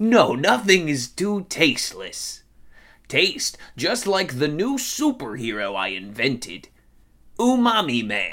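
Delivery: put-on acted elderly voice. Doing an old impression, speaking as Stan Lee: Stan Lee impression. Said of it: "Too soon to be dusting off this old impression".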